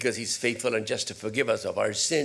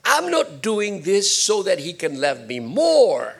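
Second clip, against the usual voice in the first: sudden realization. Retold or imitated. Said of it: "all of a sudden".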